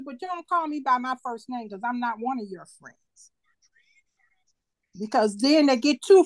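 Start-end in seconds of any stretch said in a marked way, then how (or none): 0.0-3.3 whispered, much softer aside. Real, not acted. Mother telling kids the rule, in a whisper.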